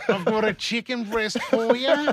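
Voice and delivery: slow, creepy come-on voice, laughing; drawn-out creepy maid offer. Pretend. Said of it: "Now it just sounds creepy".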